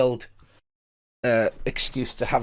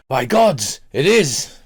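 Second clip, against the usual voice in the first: louder, startled gasp at the alcohol; gasping at strong drink; 6 dB louder, slower than usual. Acted. Game master voices a drinker tasting strong beer, gasping. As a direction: react as if the drink burns. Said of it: "gasps a little at the alcohol content".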